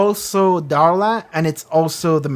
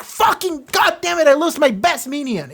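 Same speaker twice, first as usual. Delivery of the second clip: much higher hammed-up furious curse; mock angry villain; 9 semitones higher than usual. The Master cursing over his lost minion, hammed-up higher rage. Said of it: "He's angry".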